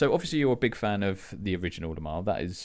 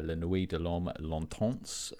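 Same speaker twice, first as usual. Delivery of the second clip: French pronunciation of La Nuit de l'Homme Longtemps, slow; silky smooth French accent; 2 semitones lower, slower than usual. Acted. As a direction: say the name like a Frenchman, slowly. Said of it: "did you just turn full French for a second there".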